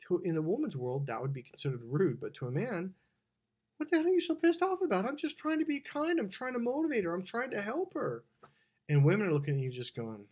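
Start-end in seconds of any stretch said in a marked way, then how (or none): 3.8-8.2 high-pitched mock exasperation; defensive man protesting his good intentions; indignant protest. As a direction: start high and hurried, ease down slightly as he justifies himself. Man's indignant defence, acted out.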